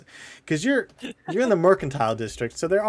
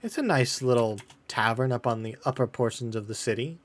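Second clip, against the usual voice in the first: hesitant helpful woman; 5 dB quieter than usual. Acted. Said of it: "She goes".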